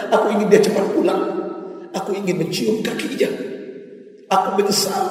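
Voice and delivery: high, pained voice of a remorseful father; an old man breaking with remorse; anguished regret. Acted. Father confesses tearful longing for son.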